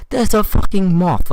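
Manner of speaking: high, loud retold outburst; panicked mock shout. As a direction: imitate a friend shouting in alarm. Acting out friend's panic over moth.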